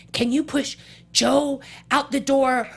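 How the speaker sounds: a rising, exasperated yell about stupid ad libs; urgent exasperated shout. Retold or imitated. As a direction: imitate the frantic director begging her. Director urgently asks actress to push.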